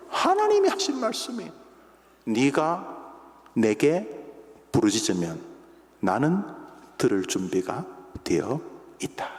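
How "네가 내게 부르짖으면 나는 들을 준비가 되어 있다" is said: slow, measured divine voice; slow solemn promise. Acted. God promises the one who cries out, slow solemn voice. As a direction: speak as God, calmly. Voicing God's words.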